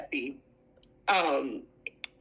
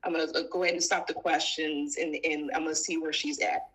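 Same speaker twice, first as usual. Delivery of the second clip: commanding husband; 8 semitones lower, faster than usual. Retold or imitated. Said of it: "Take charge".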